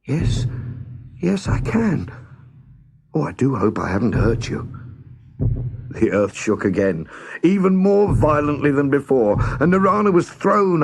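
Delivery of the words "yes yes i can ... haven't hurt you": put-on scared young girl. Lost girl asks unseen voice who it is, anxious. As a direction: ask nervously, searching the sky.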